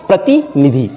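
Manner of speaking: प्रतिनिधि with short ti and ni, long final dhee; correct pronunciation. Shown as a demonstration. Teacher models the right word for pupils, प्रतिनिधि with long final dhee. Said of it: "तो सही शब्द है".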